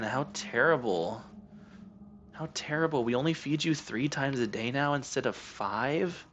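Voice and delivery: slow, sarcastic sympathy for the cat; mock pity. Real, not acted. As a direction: pretend to pity a spoiled pet.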